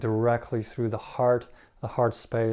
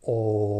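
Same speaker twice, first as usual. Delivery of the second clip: oh sound. Shown as a demonstration. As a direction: sound a steady oh. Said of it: "gently close your fists and go".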